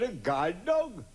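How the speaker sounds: slow, drawn-out "A guide dog?"; incredulous. Acted. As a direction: stretch it out slowly, unbelieving. Joke, barman incredulous.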